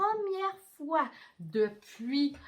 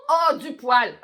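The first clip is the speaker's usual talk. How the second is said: loud bright discovery; eureka; 13 dB louder, slower than usual. Acted. Storyteller echoing the child's idea, excited discovery. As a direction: announce it like a discovery.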